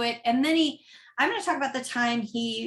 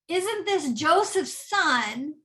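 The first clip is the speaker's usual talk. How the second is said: plain question; 5 semitones higher, slower than usual. Shown as a demonstration. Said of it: "read it with a different sort of tone".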